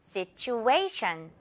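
Situation, A punched, very slow; stress on A. Shown as a demonstration. Teacher modelling for students to repeat, slow stressed A. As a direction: model it for repetition. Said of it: "한 번 더".

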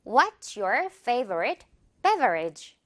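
very slowly, word by word; slow model sentence. Shown as a demonstration. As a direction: spell it out slowly for learners. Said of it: "라고 물어볼게요". (학습자를 위해 아주 천천히 또박또박)

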